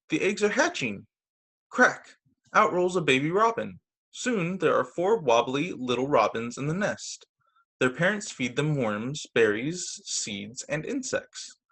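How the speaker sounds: gentle storybook narration; patient picture-book read-aloud; reading to children. A narrator's reading.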